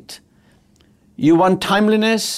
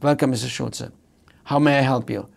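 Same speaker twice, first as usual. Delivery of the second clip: soft personal welcome; 3 semitones lower, 3 dB quieter than usual. Retold or imitated. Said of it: "ideal service, personalized".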